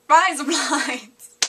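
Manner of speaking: loud, drawn-out Australian accent; slow, exaggerated Aussie twang. Shown as a demonstration. Vlogger overdoes the razor blades trick after laughing, broad Australian accent. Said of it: "with an Australian accent".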